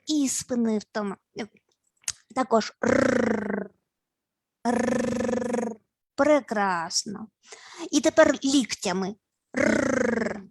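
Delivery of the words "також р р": «р» as a slow trill; slow rolled r. Shown as a demonstration. Teacher drilling the group on slow rolled r. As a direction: stretch each «р» slowly. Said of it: "нам потрібні приголосні".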